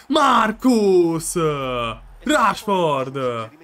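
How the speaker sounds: loud shout of the name; calling the scorer. Real, not acted. Gamer hailing Rashford, loud excited call. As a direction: call him out proudly.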